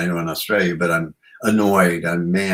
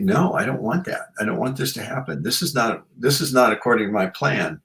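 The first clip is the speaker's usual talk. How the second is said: higher, whining protest; mock protest; 4 semitones higher than usual. Diner protests to the conveyor belt, higher and whining. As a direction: whine like a thwarted diner.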